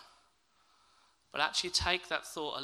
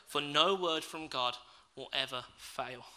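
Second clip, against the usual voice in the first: reassuring promise; slower than usual. Acted. Angel reassuring Mary, slow and gentle. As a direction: settle it gently and slowly. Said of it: "the angel goes on to say".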